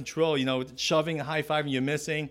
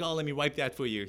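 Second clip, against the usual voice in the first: mocking offer. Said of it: "He was mocking me".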